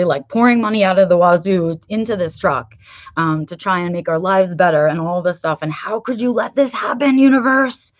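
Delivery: mock rant. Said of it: "my organic response would have been to get pissed".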